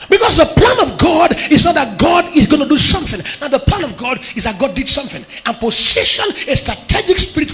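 loud, chanting sermon cadence; preaching at full force. Acted. Pastor declaring victory over the congregation, loud and rhythmic. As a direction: declare it with rising fervour.

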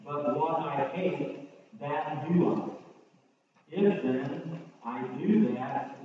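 measured Bible reading in short phrases; preacher reading aloud to the congregation; Scripture reading. Real, not acted. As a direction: read the verses out firmly, phrase by phrase.

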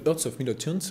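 club name said in an English accent; name the Scottish club in an English accent. Real, not acted. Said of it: "Excusez-moi pour mon accent anglais".

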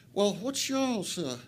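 slow Memphis drawl, poorly imitated; bad Memphis accent. Joseph quizzing newcomers from Flint, bad Memphis accent. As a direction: have a clumsy go at a Memphis accent. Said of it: "I'm terrible at the accent".

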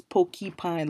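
"pokey pine" as two separate words; "pokey pine" with poke heard first; split-up pronunciation. Shown as a demonstration. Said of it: "the word poke is like poke".

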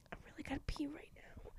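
quick, whispered aside; hushed aside. Real, not acted. Confessing a need to pee, hurried hushed aside. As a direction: slip it in fast under your breath.

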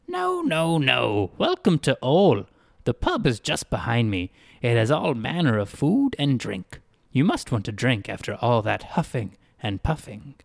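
a lightly voiced, overly polite town greeter; odd cheerful greeter. Greeter welcoming a dazed girl, lightly voiced and polite. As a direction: play the greeter, hospitable and a bit strange.

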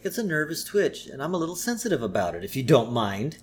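lightly voiced kid playing sensitive; Bart. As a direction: rattle off a quiet excuse. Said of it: "Bart's like".

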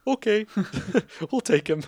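high, loud eager yes with a laugh; eager Cubs. Retold or imitated. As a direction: jump at the offer, laughing. Cubs voiced accepting eagerly.

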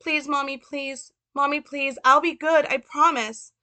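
put-on high child's voice, begging and pleading; Little Frank. Boy begging his mother not to lock him away, high pleading. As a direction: plead like a small boy afraid of the dark. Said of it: "Little Frank".

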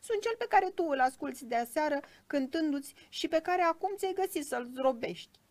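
high, loud, aggrieved little voice; indignant tiny cricket. A narrator's reading. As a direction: scold as a small injured musician. (greieraș supărat, cu voce subțire)

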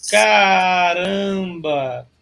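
slow, drawn-out amazed caramba; pleasantly amazed. Retold or imitated. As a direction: savor the discovery slowly. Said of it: "Não, é tipo". (surpresa arrastada e admirada)

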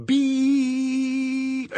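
long, high monotone beep; machine beep. Acted. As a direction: hold one high note like an answering machine. Imitates answering machine tone.

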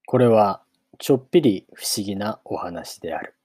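measured audiobook reading with long pauses; story narration. A narrator's reading. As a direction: read it out as a storybook opening. Reads a novel aloud. (間を取った物語の朗読)

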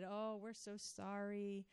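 soft, slow consoling voice; a lightly voiced, soft sympathy; sympathetic leaders. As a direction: comfort the crying girl gently. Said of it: "they said".

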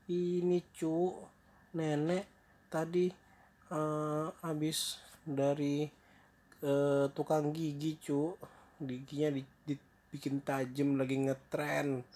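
lightly voiced high granny, halting; a hint of granny, searching for excuses; fake grandmother. Disguised wolf explains fangs to grandchild, lightly voiced granny. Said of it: "kata neneknya".

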